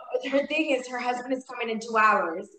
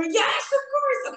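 much higher, slow, airy reply; spirit helper; 3 dB louder, slower than usual. Retold or imitated. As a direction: voice the helpers answering. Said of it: "And I hear".

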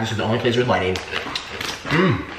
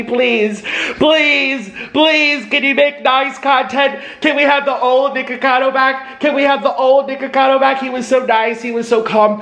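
mock pleading fans; 6 semitones higher than usual. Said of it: "Everyone asks me".

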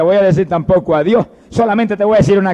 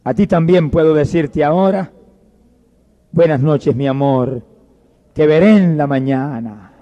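low, halting deathbed farewell; weak dying mother; 3 semitones lower than usual. Acted. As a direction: say a tender goodnight with failing strength. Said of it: "débilmente y le dijo".

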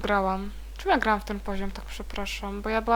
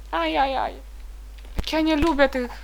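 ordinary delivery

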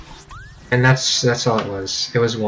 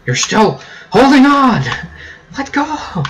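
high yell at the screen; 13 semitones higher, 6 dB louder than usual. Real, not acted. Yelling at his game character.

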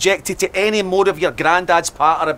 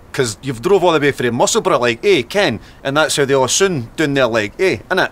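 put-on a light East Coast Scottish accent; 3 semitones lower than usual. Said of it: "East Coast accent".

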